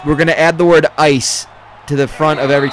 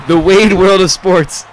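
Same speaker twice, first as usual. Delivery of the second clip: put-on slow, louder, higher Canadian announcer accent; a jokey Canadian sports show title, Canadian accent; mock Canadian accent; 4 semitones higher, 7 dB louder, slower than usual. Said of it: "just us doing shitty Canadian accents".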